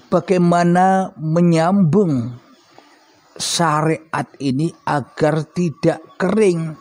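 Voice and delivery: talking around a cigarette; cigarette in mouth. Real, not acted. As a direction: speak while smoking a cigarette. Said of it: "Sambil merokok ya". (bicara sambil merokok)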